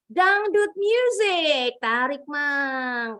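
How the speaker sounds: teacher teasing Halwa by voicing her dangdut answer; mock Halwa answer. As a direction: ham up an eager dangdut fan. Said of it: "Kata Halwa".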